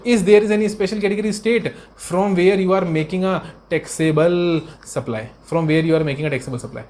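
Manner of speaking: reading the question out word by word, very slowly; teacher dictating at a crawl; slow dictation. Shown as a demonstration. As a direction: spell it out slowly so students can write it down. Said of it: "मैं थोड़ा धीरे धीरे बोलता हूँ".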